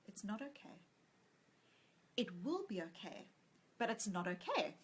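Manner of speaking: softly and kindly, like a gentle nurse; calm the mother with quiet kindness; compassionate, kind. Retold or imitated. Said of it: "so compassionately, so kindly".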